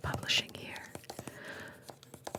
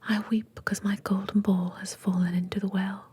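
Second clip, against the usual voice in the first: put-on louder British-accented whisper for the princess; whispered princess with a light British accent; 6 dB louder than usual. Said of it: "I don't know why they're British".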